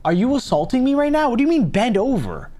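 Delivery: indignant disbelief. Real, not acted.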